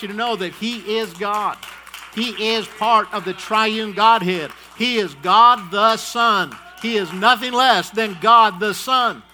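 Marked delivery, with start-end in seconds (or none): 2.1-9.2 loud, slow, hammering each word; preaching at full force. Real, not acted. Preacher booming the doctrine to his congregation, loud and slow. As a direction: thunder it out to the congregation.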